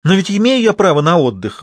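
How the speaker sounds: high, defiant outburst; acted burst of youthful objection; blurted out. A narrator's reading. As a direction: blurt it in protest. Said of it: "выпалила Наташа".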